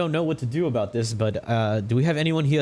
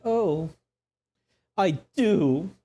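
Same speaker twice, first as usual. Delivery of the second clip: high, lightly put-on bride voice; swooning bride; 8 semitones higher, much slower than usual. Moth bride accepts Leo, lightly voiced and high. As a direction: sigh out a coy I do.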